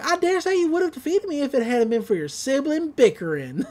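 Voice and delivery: high-pitched gloating little villain; Gideon. Retold or imitated. Villain to the captured twins, high mock gloating.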